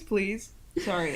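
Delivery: ordinary talk, nothing marked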